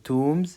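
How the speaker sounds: "tombs" with the B left silent. Shown as a demonstration. Teacher showing pupils the silent letter in "tombs", B unpronounced. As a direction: say "tombs" as "tooms", no B sound. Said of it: "البي سايلنت، لا تنطق".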